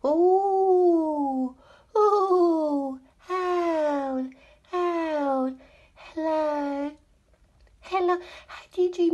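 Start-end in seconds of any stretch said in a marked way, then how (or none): 0.1-3.0 owl hoot. Pretend. Hoots before naming the owl.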